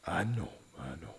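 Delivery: fast, soft whisper; whispered comfort; soothing whisper. Acted. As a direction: hush her with a quick whisper. Sheriff soothes grieving widow.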